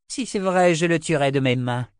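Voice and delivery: a hint of rising fury; vengeful vow. A narrator's reading. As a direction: promise death with rage. Karg vows to kill.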